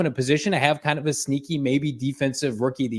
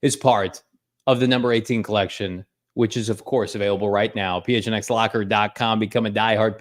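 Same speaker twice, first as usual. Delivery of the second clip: sponsor ad read; 2 semitones lower than usual. Acted. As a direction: pitch the tea collection like a radio host read. Co-host reads sponsor spot.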